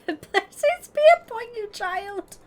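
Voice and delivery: high, loud laughing benediction; mock-holy blessing through giggles. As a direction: bless them like a hammed-up preacher.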